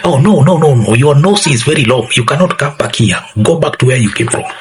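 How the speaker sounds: hammed-up rude host shooing a visitor off; rude local. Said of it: "people have very bad and the worst attitude".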